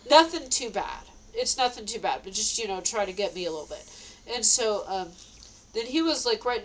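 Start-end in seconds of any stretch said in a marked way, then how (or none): 0.0-1.0 spoken through a laugh. Real, not acted. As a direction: laugh out the words. Laughing retelling of prank.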